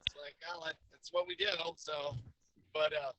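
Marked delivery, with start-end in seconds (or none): 0.5-1.5 lightly voiced high casual reply; high mock voice. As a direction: pop the pitch up for the quip. Retold own casual reply.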